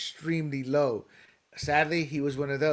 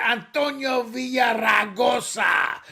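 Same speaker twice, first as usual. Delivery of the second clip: mock announcer; 6 semitones higher, slower than usual. Announcing a candidate.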